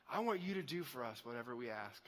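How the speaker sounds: put-on wheedling kid slipping in a big request; cheeky kid at the back of the class. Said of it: "that kid in the back of the class that's like".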